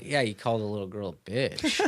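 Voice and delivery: low, soft deadpan imitation of wife; reproachful wife. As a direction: quietly rub it in, pitched low. Wife's reproach, retold.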